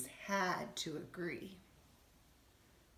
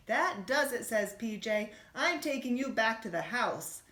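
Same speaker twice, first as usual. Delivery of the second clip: high, louder, fed up; fed-up outburst; 4 semitones higher, 4 dB louder than usual. Acted. Bunny fed up with his cousin, loud outburst. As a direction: snap that he's had enough.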